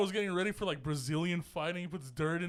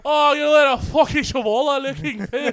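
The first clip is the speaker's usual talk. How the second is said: high, loud laughing mock brag; mock McGregor insult; 6 semitones higher, 11 dB louder than usual. Mocking McGregor taunting a fan, high laughing sneer. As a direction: ham up a cocky sneer.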